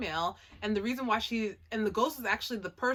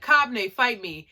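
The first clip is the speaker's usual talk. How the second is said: challenge; 9 dB louder than usual. Retold or imitated. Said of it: "Kon comes out of nowhere and is like".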